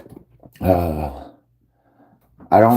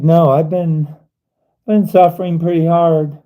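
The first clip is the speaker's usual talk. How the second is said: pleading reply; 8 semitones higher, 3 dB louder than usual. Pretend. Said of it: "Be like".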